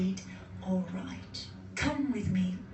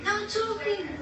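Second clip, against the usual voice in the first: strict overseer; 10 semitones higher than usual. Pretend. Acting the strict factory rule.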